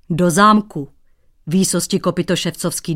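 sulky annoyance. Acted. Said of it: "durdil se cizinec".

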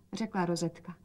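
plain reading voice

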